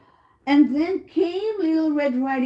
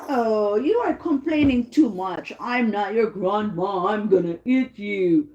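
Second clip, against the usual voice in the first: lightly voiced storybook wolf, dropping lower; threatening wolf; 4 semitones lower than usual. Wolf tells Red Riding Hood he's not grandma, low mild threat. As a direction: end on a low, understated threat. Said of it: "said the wolf".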